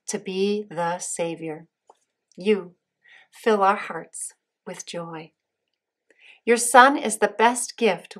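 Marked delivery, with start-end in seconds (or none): 2.4-5.3 slow prayer response. Shown as a demonstration. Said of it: "repeat after me".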